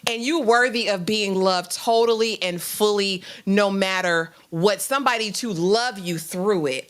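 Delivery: slow, emphatic motherly reassurance; tender affirmation. Retold or imitated. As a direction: affirm her worth in a measured, heartfelt way. Mother reassures heartbroken daughter on steps.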